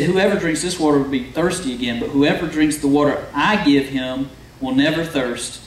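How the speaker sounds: measured, formal reading of the Bible text; scripture reading. Acted. Pastor reading the well passage to the congregation, measured and formal. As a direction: read the verses out to the congregation.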